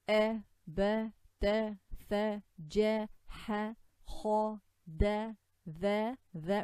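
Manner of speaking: a, ba, ta with a as in apple, kha heavy; light-letter accent. Shown as a demonstration. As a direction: recite a, ba, ta loud, one held syllable each. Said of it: "this is the accent".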